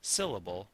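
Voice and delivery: "Syllable" with SYL strong, the rest falling away; stress on first syllable. Shown as a demonstration. Teacher giving the agreed pronunciation, stressing SYL in "Syllable". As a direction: hit the first beat of "Syllable". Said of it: "emphasizing different sounds".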